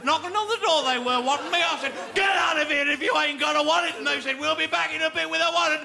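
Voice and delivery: a touch of cockney geezer, chatty; dodgy cockney dealer bragging to the shopkeeper; cockney crook. Acted. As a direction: lay on the cockney, mate.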